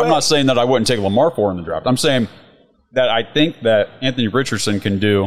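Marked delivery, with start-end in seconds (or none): 1.9-5.2 talking with a mouth full. Real, not acted. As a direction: speak through a mouthful of steak. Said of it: "my mouth is full".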